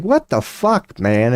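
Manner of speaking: retold jolt of surprise; shocked disbelief. Reacting to a harsh reading.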